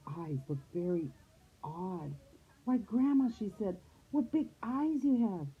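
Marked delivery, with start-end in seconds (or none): 2.6-3.3 put-on high, wondering girl voice; higher-pitched childlike surprise; puzzled little girl. A narrator's reading. Girl marvels at odd grandma. 4.1-5.5 put-on high, wondering girl voice; higher-pitched childlike surprise; puzzled little girl. A narrator's reading. Girl marvels at odd grandma.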